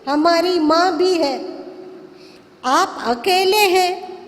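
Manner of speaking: emphatic, half-shouted retold warning; retold shouting. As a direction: warn Father off, mildly mock-shouting. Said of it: "चिल्ला कर कहते".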